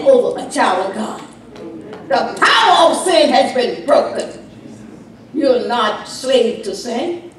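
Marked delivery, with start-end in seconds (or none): 2.1-7.3 full-voiced sermon delivery; preaching. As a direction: preach it to the congregation.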